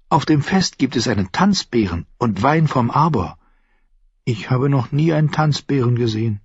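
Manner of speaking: junge Frau, höher gesprochen, neugierig; Shay. Acted. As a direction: fragt ihn leise drängend aus. Shay erzählt begeistert. (Shay, junge Frau, höhere Stimme)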